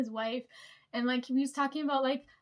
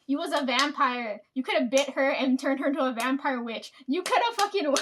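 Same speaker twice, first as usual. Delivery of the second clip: emphatic insistence; 4 dB louder than usual. Retold or imitated. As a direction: insist he could have won. Teller insists grandpa had advantage.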